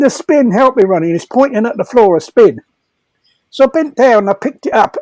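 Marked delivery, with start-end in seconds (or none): 0.0-1.1 much higher, hammed-up frightened squeal; imitating a panicked cellmate; mock panic. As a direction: mimic the terrified man on his bed. Retold frightened inmate pleading.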